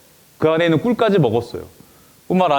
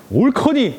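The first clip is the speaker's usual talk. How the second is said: gleeful ambush cry; 9 semitones higher, slower than usual. Acted. Philistines bursting in.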